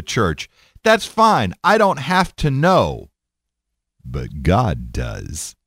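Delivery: mock preacher's reproach, slowing at the end; chastising preacher. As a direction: imitate a preacher guilting the congregation. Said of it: "he chastised the crowd".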